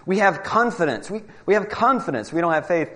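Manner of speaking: mock the atheist digging in; retold angry insistence. Atheist insisting to debaters, mild mock anger. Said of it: "he's getting angry".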